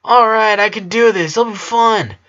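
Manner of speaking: mimicking his own cocky confidence; eager self-pep talk. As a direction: talk yourself into it, all keen. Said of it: "I was like".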